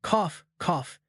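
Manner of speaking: choked cough while being strangled; mock coughing for breath; lightly voiced cough cough; spoken coughs. A narrator's reading. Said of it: "gasping for breath".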